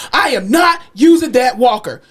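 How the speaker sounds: loud, slow, emphatic refusal; imitating stubborn patient. Patient refusing walker a second time, mock stubborn. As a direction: space out each word stubbornly.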